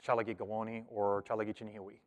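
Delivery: "Chalagi Gawoni or Chalagi Chinihiwi" in fluent Cherokee; speaking Cherokee. Shown as a demonstration. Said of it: "I would say".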